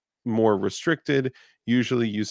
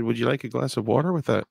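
mock Canadian courtesy; 3 semitones higher, faster than usual. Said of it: "And I said".

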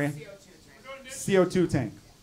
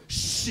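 loud shush; 3 dB quieter than usual. Retold or imitated. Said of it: "you go".

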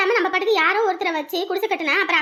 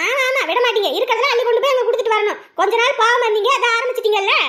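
sarcastic jab; 4 dB louder than usual. Acted. Wife mocks husband sarcastically.

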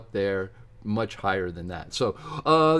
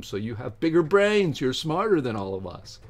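sarcastic; 4 dB louder than usual. Acted. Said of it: "I'm being sarcastic".

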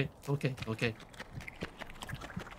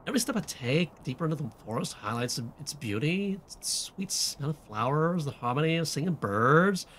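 put-on valley girl slipping southern; 2 semitones higher than usual. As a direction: read it as a pretentious teen, drifting Southern. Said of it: "this does not sound like a valley girl".

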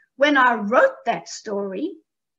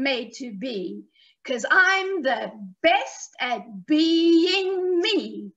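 slow, rhythmic recitation with drawn-out key words; children's rhyme; slower than usual. Shown as a demonstration. Teaching children a rhyme about being yourself, slow sing-song recital. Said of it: "One more time, all together".

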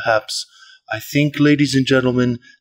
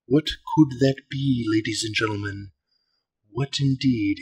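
golf commentator; 5 dB quieter than usual. Pretend. Hushed mock commentary on unboxing.

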